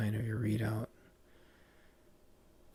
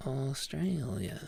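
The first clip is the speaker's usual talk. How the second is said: slow, softer Australian "Australia" with an "ay" vowel; softer, drawn-out Australian accent take; attempted Australian accent; 3 semitones higher, 5 dB quieter, slower than usual. Shown as a demonstration. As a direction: try Aussie "Austr-ay-lia", falling at the end. Second take of the accent word.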